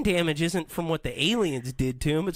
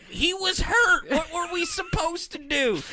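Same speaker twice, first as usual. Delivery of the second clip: mock defensive shout; 12 semitones higher than usual. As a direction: plead it as the flustered alien. Aliens voiced defending themselves.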